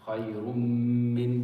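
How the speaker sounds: "Khayrun min" merged into a held, hummed m; emphasis on second letter. Shown as a demonstration. Teacher giving a tanween example, long nasal m in "Khayrun min". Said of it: "I'm spending my time and".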